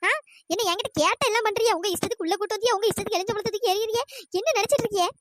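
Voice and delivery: rapid-fire irritated scolding; acted annoyance. Scolding the companion who asked about the crying, annoyed. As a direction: snap back at her with mild exasperation. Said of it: "கோவப்படாதடி".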